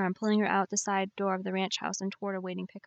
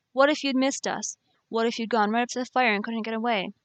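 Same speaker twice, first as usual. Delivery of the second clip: angry; 3 semitones higher, 4 dB louder than usual. Acted. He scolds her at fire.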